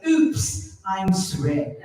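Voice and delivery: mock-polite London English apology; English accent. Shown as a demonstration. Tripping over someone in London, English accent. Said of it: "walking down the streets of London".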